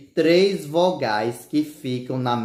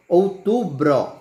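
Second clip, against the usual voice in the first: syllable by syllable; 4 semitones higher, 3 dB louder, slower than usual. Shown as a demonstration. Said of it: "Por exemplo".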